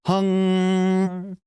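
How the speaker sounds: hung held high through the nose only; nasal hung. Shown as a demonstration. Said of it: "let's try this again".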